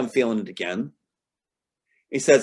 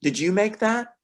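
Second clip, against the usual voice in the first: high mock child's question; lightly voiced little girl; 10 semitones higher, slower than usual. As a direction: ask like a shy kid caught off guard. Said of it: "going like".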